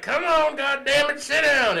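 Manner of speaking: high, loud scolding yell; wife's mock yell. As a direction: yell at a drunk husband to sit down. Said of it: "She's like".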